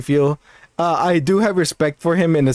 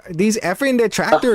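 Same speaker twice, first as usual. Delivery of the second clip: higher-pitched streamer impression; imitated streamer cadence; 6 semitones higher than usual. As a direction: mimic an aggrieved streamer's cadence. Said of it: "the cadence of how he speaks".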